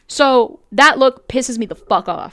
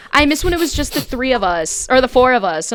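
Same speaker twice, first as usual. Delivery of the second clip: lightly put-on country Valley Girl, pitched up; a touch of mocking Southern Valley Girl; Southern Valley Girl accent; 4 semitones higher, 4 dB louder than usual. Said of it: "it's a Southern accent".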